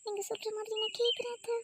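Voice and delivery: put-on high, light young wife's voice. Wife answering her husband, in a high girlish voice. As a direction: lift into a sweet, girlish wife. Wife thanking mother-in-law.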